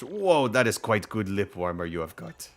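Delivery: lightly attempted Russian villager accent; game villager with a hint of Russian; rough Russian accent. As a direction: try a loose, unsure Russian accent. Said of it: "I can't do a Russian accent".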